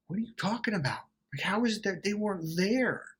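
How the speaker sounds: high-pitched, baffled questioning; incredulous retort. Retold or imitated. Answering someone who blames absent relatives, incredulous. Mimed retort to absurd excuse.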